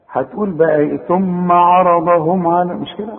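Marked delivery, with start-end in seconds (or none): 1.0-2.7 slow "عرضهم" with a thickened "عا"; wrong heavy ayn. Shown as a demonstration. Teacher mimics a learner's slip, slow heavy ayn in "عرضهم". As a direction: mispronounce "عرضهم", making the ع heavy. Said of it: "يا راجل عا".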